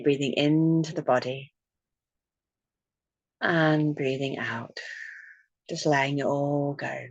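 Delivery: gentle meditation voice, with long pauses; guided meditation. Real, not acted. Leads a breathing meditation.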